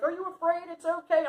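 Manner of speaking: put-on high, gentle little girl; lightly voiced little girl comforting. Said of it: "this little girl's like".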